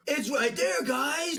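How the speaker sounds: high, sing-song it's right there guys; mock excited kid show voice. Friends joking about a cartoon, high excited kid-show voice. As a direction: gush like a cartoon guide. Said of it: "And she's like".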